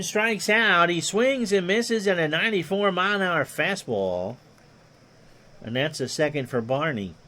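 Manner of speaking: lightly voiced old radio play-by-play; a hint of a veteran baseball announcer; Ron Juckett impression. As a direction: call it like a ballpark broadcaster, easy and even. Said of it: "My Ron Juckett impersonation is sufficient".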